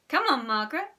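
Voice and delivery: high, loud prodding; urging. A narrator's reading. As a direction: urge an unresponsive friend. Susan urging unresponsive Margaret.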